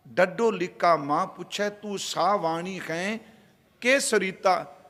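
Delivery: slow, measured verse recitation; gurbani recitation. Acted. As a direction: intone the scripture line by line. (ਹੌਲੀ ਗੁਰਬਾਣੀ ਪਾਠ)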